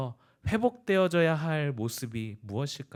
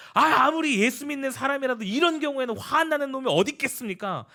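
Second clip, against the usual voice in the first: normal talking voice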